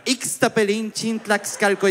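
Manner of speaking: painstaking syllable-by-syllable repeat; laboured sounding-out. Acted. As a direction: spell it out slowly for a listener. Repeating hard name for the señora.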